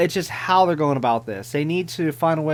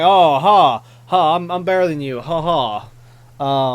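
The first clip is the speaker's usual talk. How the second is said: loud, smug mocking laugh-talk; mock rude bird; 6 dB louder than usual. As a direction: sneer it out like a snotty know-it-all. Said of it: "she's straight up being rude".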